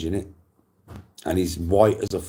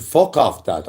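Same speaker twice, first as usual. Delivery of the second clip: higher, louder retold refusal; mock outburst; 3 semitones higher, 7 dB louder, slower than usual. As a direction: snap back at dad, raised voice.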